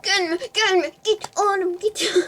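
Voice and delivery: high, loud yells to shoo him off; shouting. Real, not acted. Streamer shouting at a chasing player, high and loud.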